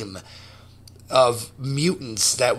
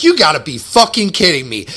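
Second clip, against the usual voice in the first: amazed; 5 dB louder, faster than usual. Retold or imitated. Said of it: "And I was like".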